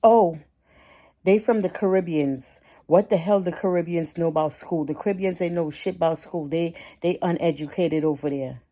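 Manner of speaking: loud mocking impression of a rude man; mocking the ignorant man. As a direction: sneer it out loud like the ignorant guy. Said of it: "Then he gonna say out his mouth".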